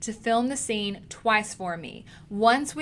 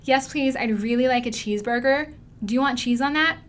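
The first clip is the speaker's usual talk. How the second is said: higher-pitched stage American accent; hammed-up American accent demo; 3 semitones higher, 3 dB louder than usual. Shown as a demonstration. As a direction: put on a rough American accent as a customer ordering. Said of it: "they're speaking an American accent".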